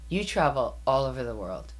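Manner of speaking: put-on lightly done thick Persian accent. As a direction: quote her in a heavy Persian accent. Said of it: "in her very thick Persian accent".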